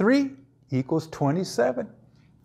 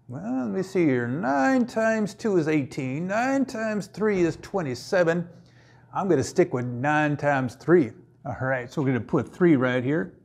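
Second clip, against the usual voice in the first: cowboy voice. Pretend. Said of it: "talking with a cowboy voice".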